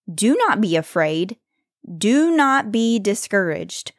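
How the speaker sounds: slow, with the words "not" and "Do" leaned on and pauses between phrases; emphatic scripture reading. Shown as a demonstration. To her listeners, reading Joshua with deliberate emphasis. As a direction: press on "not" in "Do not be afraid", let each phrase land. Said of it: "I'm putting some emphasis on some different words".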